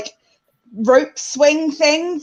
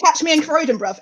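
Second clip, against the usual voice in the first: tough South London; 3 semitones higher than usual. Pretend. Jokingly posing as tough South Londoner.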